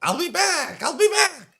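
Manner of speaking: witch threat. Acted. Witch vows return.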